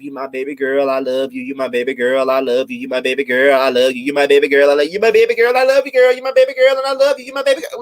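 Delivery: a mother's sing-song refrain that keeps climbing into a mocking shout. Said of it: "something that she's told Tamika all her life".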